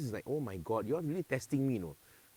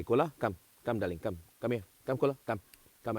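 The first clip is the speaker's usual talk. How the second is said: coaxing the dog; 3 semitones lower than usual. Real, not acted.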